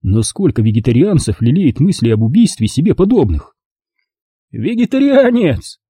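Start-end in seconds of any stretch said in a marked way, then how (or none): 4.5-5.8 high, slow mocking exclamation; exclaiming. Kurt mocks the word at the dinner table, exclaiming high. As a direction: stretch it out in disbelief. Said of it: "воскликнул Курт".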